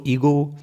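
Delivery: ईगो, very slow, ending in a pure ओ; ईगो बहुत धीरे, अंत में शुद्ध ओ; slow demo word. Shown as a demonstration. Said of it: "उसका उच्चारण ओ होगा". (ईगो धीमे, साफ़ ओ पर ख़त्म)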